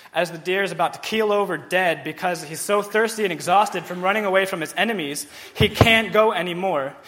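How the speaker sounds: loud, urgent, straining retelling; desperate plea. Acted. Preacher gives a desperate rewording of the psalm, loud and urgent. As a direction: push it like a dying deer. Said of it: "it might sound more like".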